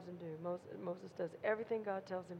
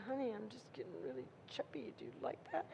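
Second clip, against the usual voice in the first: shy little question; 8 dB quieter, faster than usual. Retold or imitated. Wife asks husband about weight.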